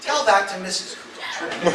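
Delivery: slow, loud, laughing; laughing punchline. Retold or imitated. Comic landing the president's comeback with a laugh. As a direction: savor the comeback while laughing.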